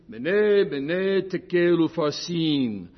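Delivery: MEH-neh, MEH-neh, TEH-kel, oo-FAR-sin, slow and deliberate; "Mene, mene, tekel, upharsin" spelled out syllable by syllable; careful Aramaic pronunciation. Shown as a demonstration. Preacher reminding the congregation how it is pronounced, careful and slow. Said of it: "the pronunciation".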